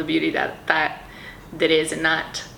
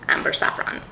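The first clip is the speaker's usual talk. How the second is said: whispered; faster than usual. Real, not acted. Whispered perfume name.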